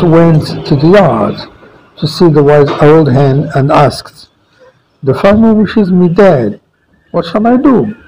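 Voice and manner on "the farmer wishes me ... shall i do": pleading mouse. Acted.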